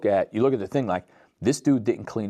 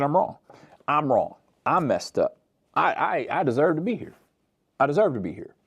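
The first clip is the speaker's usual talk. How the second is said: high, earnest pleading voice; pleading confession; 8 semitones higher than usual. Retold or imitated. Repentant criminal confessing to Jesus, high pleading. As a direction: beg as a man owning his guilt.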